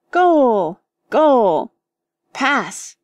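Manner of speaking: high, loud game shouts; shouting goal. Acted. George kicks the bundle and shouts loud cheers. Boys playing football with clothes.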